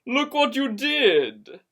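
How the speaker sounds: calling out his name sharply, then scolding; loud call. Acted. Kate calling out to Josh in alarm, loud. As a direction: shout his name then snap at him.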